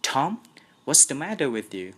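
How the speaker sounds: breathless fright; gasped out. A narrator's reading. Aunt Polly gasps at Tom's bedside. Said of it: "she gasped out".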